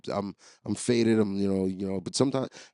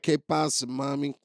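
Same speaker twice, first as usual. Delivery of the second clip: retold yell; 4 semitones higher than usual. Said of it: "I'm yelling, like".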